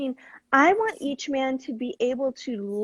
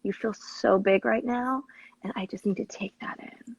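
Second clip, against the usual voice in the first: sexy loving voice; 3 semitones lower than usual. Shown as a demonstration. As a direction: draw it out lovingly. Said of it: "a sexy, loving voice can say".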